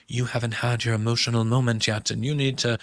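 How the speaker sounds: put-on British accent; the speaker's British accent. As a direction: imitate a woman coaching someone in a British accent. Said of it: "you like my British accent".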